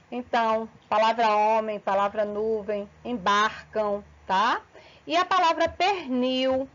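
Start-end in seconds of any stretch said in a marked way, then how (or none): 5.7-6.7 "pernil" ending in a U sound; final L as U. Shown as a demonstration. Teacher showing students the diphthong, final L said as U. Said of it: "ele tem som de U".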